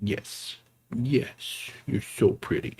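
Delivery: whispered, tender coo; whisper to pet. Real, not acted. Streamer whispering to his kitten on his lap.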